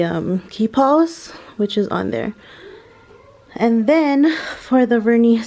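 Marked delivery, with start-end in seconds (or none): 3.6-5.4 out of breath; breathless, short of air; shallow breathing. Real, not acted. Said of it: "sorry, I'm out of breath".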